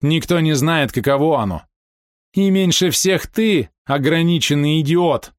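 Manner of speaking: high, scornful insult; contemptuous. A narrator's reading. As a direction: spit out the insult slowly at the end. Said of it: "презрительно усмехнулась та". (презрительно и зло)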